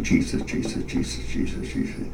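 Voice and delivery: breathy, fading repetition; whispered mantra. Retold or imitated. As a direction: whisper the name while writing.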